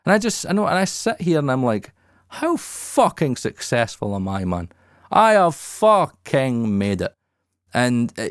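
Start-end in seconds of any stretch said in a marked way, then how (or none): 2.3-7.1 emotional. Real, not acted. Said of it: "I get a little bit emotional saying that".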